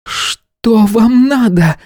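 a woman's outraged demand, pitched high; indignant lady of the house. A narrator's reading. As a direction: bristle at the intruders, high and indignant. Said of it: "возмутилась хозяйка дома".

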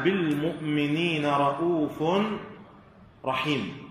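slow recitation, رءوف sounded "ra'ufun", رحيم stopped as "rahim"; tanween kept, then dropped. Shown as a demonstration. Teacher reciting a verse example, tanween on رءوف, none on رحيم. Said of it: "ثبت التنوين في الأولى".

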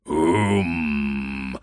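low rumbling um; bear's roar. A narrator's reading. The bear echoing, low rumbling roar. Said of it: "заревел медведь".

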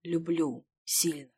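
slow, soft confession; hushed, drawn-out intimacy; whispering. A narrator's reading. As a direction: murmur it tenderly and slowly. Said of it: "шептал уже ей в лицо".

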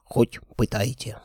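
whispered defiant dare. Acted. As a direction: breathe it out, stubbornly. Captive envoy defiant.

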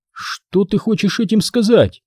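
slow wary high question; suspicious. A narrator's reading. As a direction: ask it slowly, distrustfully. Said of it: "подозрительно спросила Ди".

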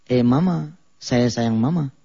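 put-on Ambon accent with an added eh. Preacher imitating a pupil taught by Ambon people, Ambon accent. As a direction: read it in an Ambon accent, light touch. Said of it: "belajarnya, maaf ya, sama orang Ambon".

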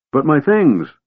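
high, pleading wail. Acted. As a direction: cry out over lost belongings. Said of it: "wailed Tass".

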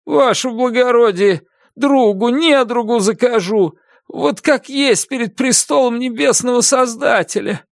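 high pleading convict voice; pleading prisoner. A narrator's reading. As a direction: swear it with desperate sincerity. Prisoner swearing to the officer.

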